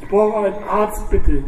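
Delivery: high, pained begging; whimpering plea. A narrator's reading. Shot biker begging for a doctor, high and whimpering. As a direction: whine it out in pain. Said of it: "jammerte der andere".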